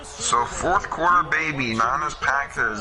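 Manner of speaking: accidental hint of a Boston accent; slight Boston accent. Real, not acted. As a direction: let a little Boston accent slip into the announcement. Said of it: "sounded like I had a Boston accent".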